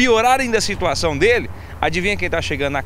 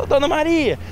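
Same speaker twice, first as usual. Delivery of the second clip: high imitated hail; policemen calling her; 8 semitones higher than usual. Policemen question the homeowner, calling out high. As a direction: call her name on a raised pitch. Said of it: "os policiais perguntaram pra ela".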